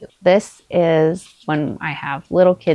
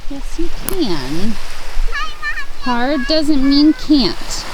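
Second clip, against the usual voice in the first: encouraging; 7 semitones higher, slower than usual. Real, not acted. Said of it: "caught myself on video saying this".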